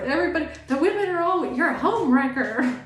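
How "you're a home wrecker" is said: mock accusation. Women accusing the new partner.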